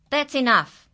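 yell. Acted. Furious farmer yelling at his animals. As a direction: bark it at the animals. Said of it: "he yelled".

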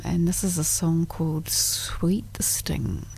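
slow hushed whisper. Real, not acted. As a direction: breathe the title out slowly. Whispered song intro.

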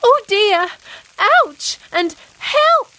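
high mock cries for help; calling out. A narrator's reading. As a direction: squeal out in pretend pain. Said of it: "Molly called out".

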